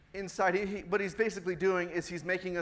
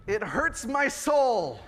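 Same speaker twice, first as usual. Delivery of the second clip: laughing; 2 semitones higher, slower than usual. Real, not acted.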